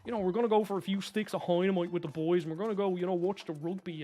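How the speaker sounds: lightly imitated posh South Dublin accent. Shown as a demonstration. Streamer mimicking posh boys from South Dublin, South Dublin accent. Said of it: "if you're from the South Side in Dublin".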